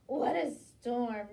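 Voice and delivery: loud, slowish cry of "What a storm"; twittering wren. Acted. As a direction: chirp it out like a wren. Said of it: "twitters wren".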